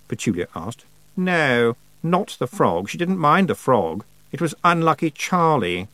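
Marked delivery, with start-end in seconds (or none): 1.1-5.9 higher, emphatic telling; a touch of a knowing girl; Anagramma voiced. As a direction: savour the scary detail. Anagramma explaining.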